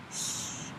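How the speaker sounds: soft breathy shush; quiet shush to a giggling child; hushing. Acted. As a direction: hush her gently. Father hushes giggling daughter.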